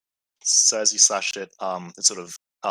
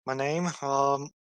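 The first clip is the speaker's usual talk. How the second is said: shaken Samantha; 3 semitones higher than usual. Acted.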